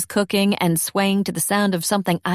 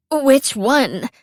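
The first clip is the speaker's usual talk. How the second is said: pinched, higher, pushed out; strained, constipated; 5 semitones higher, 4 dB louder than usual. Acted. Cece asking Elsie which Twilight, strained. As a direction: squeeze it out as if straining. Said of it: "sounding constipated".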